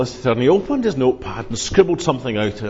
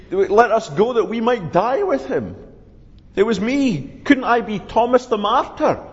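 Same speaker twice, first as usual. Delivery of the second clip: Thomas pleading; 3 semitones higher than usual. Acted. Thomas voiced in story.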